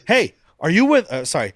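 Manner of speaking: high questioning call to a stranger on a bridge; calling out guard. Retold or imitated. Guard hailing Cassian on the bridge, calling out high.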